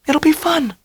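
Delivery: very high, delighted; gleeful Dell. A narrator's reading. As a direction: sing it out cheerfully. Dell's glee.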